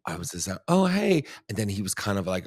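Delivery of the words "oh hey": high, louder "oh, hey"; pitched-up mock-casual greeting; retold awkward greeting. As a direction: act out a caught-off-guard hello. Retold awkward greeting of old flame.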